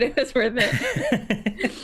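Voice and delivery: slowly drawn out through laughter; slow laughing. Acted. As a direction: stretch it out, laughing.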